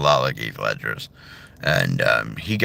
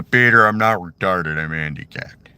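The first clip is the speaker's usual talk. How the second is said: Patrick Warburton as Joe; 3 dB louder than usual. Retold or imitated. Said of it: "Joe from Family Guy".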